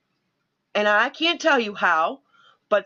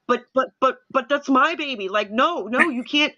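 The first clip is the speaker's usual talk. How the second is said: higher, stammering mock plea; pleading panic; 4 semitones higher than usual. Daughter protesting grandmother taking her baby, higher stammering plea. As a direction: beg like a frantic new mom. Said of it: "I was freaking out".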